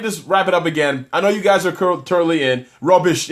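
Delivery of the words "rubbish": put-on Nigerian accent. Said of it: "I love doing African accents".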